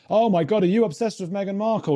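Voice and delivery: high-pitched imitation of a scandalized commenter; mock outraged commenter. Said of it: "these comments going like".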